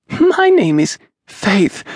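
put-on high, slow child's voice; a shy small girl giving her name; little girl voice. A narrator's reading.

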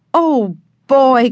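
put-on high, delighted little-boy whoop; excited cry. A narrator's reading. Benny thrilled to push the blast handle, crying out. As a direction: burst out with glee. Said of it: "cried Benny".

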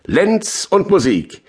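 high-pitched, slow, falling declamation; recited climax of a poem; poetic proclamation. Acted. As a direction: proclaim LENZ high and drawn out, then fall through Musik. Title proclaimed as poem's climax.

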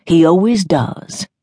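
put-on a slow, faithful old woman. A narrator's reading. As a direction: say it like a trusting grandma. Grandmother Graham speaks.

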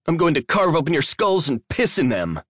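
high-pitched spitting threat; shouted threat. A narrator's reading. Addie threatens the creatures branding her, shouting. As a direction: shout it high, spraying saliva. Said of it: "she shouted, spraying saliva".

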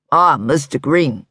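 put-on slow, courteous older man; a hint of a distinguished salesman; lightly voiced elderly assistant. A narrator's reading.

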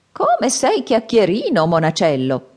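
slow, shaking-head reproach; head-shaking old man. Acted. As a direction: tut at the chatty boy slowly. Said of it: "disse il vecchio crollando il capo". (vecchio che scuote il capo, lento)

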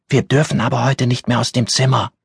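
put-on high child voice, warning; a scared girl telling her to stop talking; timid child's voice; hushed little girl. A narrator's reading. Roommate objects.

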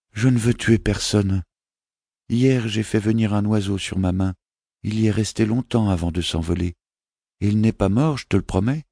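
a small prince asking his mother; child's voice, lifted and innocent; young boy voice. Acted.

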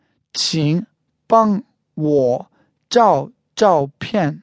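slow, each syllable of the phrase separated. Shown as a demonstration. Teacher repeats the photo request for learners, syllable by syllable. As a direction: say it word by word for learners, with gaps. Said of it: "One more time".

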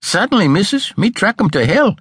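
high, earnest servant voice, lightly done; solemn assurance. A narrator's reading. Martha promising her mistress to find the slippers, solemn. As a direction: promise it with mock gravity. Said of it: "came the solemn assurance".

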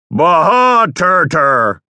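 garbled announcer. Shown as a demonstration. Worn out, a slow garbled announcer read. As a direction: mash the line into babble. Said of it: "I was barely intelligible at this point".

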